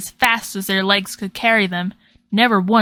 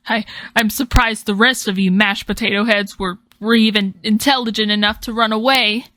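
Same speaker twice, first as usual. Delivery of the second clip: annoyed; 2 semitones higher, 3 dB louder than usual. Acted. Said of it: "they said in an annoyed tone of voice".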